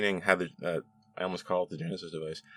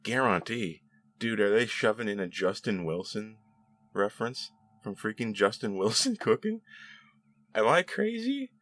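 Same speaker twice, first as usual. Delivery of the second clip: higher-pitched mock disbelief; incredulous; 4 semitones higher than usual. Retelling own reaction to the Cajun reference, incredulous. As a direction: replay a baffled fan's reaction, pitch leaping on the question.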